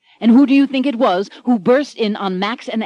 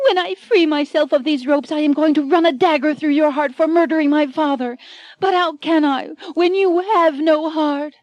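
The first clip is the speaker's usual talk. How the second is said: high, melodramatic threat; vengeful heroine; 7 semitones higher, 3 dB louder than usual. Acted. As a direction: vow revenge like a stage heroine. Anne threatens Michael.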